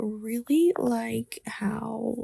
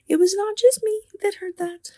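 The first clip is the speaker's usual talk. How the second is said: frightened whisper; 10 semitones higher, 6 dB louder than usual. Retold or imitated. Realising husband heard it too.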